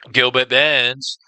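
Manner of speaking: slow, dramatic drawn-out name. Shown as a demonstration. Host savoring a fighter's name, slow and drawn out. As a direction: stretch the name out like an announcer.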